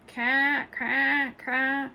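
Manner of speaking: loud high squawking caw; peacock cawing. A narrator's reading. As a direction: screech it like a big bird. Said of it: "heard a terrible noise".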